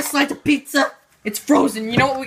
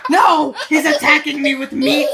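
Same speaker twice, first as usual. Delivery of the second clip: mock alarmed cry. Cook under attack with meat, mock alarmed cry.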